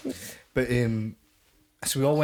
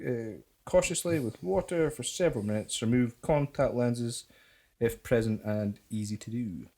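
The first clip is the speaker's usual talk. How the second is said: label read; slower than usual. Acted. Reads out the warning label.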